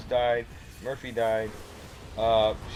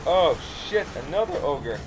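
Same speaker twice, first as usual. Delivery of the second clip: alarmed curse; 3 semitones higher, 5 dB louder than usual. Retold or imitated. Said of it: "they're like".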